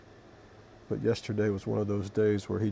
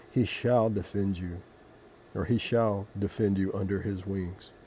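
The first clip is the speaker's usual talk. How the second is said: scripture reading. Acted. Vlogger reading Psalm 91 to viewers, measured scripture reading. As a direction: read it like a prayer from the Bible.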